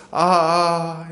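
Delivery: long, level 'aah' of dread; mock fearful groan. Preacher mimics us crying like Gehazi, drawn-out groan. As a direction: groan helplessly like the frightened servant. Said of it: "게하시처럼 소리 지를".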